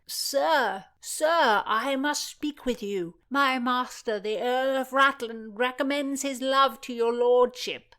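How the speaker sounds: high, loud fawning page; butter him up with his lordship; eager page. Acted. The page Philomena flatters George, high and eager.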